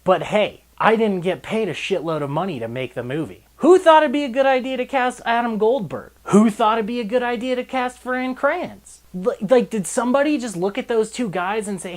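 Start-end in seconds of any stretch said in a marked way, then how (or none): 3.6-11.1 loud, high indignant questions; exasperated rant. Real, not acted. Reviewer rants at the casting choices, loud and high. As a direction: demand an answer, fed up.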